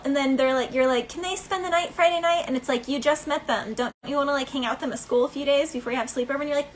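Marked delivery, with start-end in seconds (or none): 1.1-2.4 put-on pleading kid. Child begging in story.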